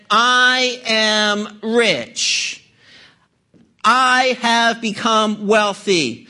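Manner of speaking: very slow, self-satisfied boast; smug boast. Retold or imitated. Preacher quoting the self-satisfied church, very slow boast. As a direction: savour every word like a proud rich man. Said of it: "They said".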